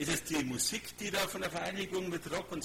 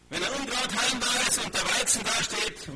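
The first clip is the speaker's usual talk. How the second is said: emphatic preaching; 5 semitones higher, 6 dB louder than usual. Real, not acted. Emphatic preaching about the parable.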